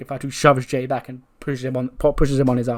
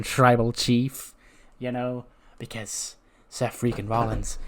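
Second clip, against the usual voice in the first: taunting Seth Rollins. Acted. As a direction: draw it out to needle them. Plays Seth taunting the Bloodline.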